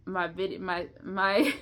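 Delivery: stuck restarting on one word; real broken, halting false starts; choppy stuttering. Real, not acted. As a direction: trip over the word and break into a laugh. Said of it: "choppy, and I'm probably gonna be stuttering".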